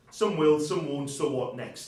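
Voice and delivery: slow, spelled-out motto. Shown as a demonstration. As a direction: lay it down slowly, word by word. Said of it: "wise words".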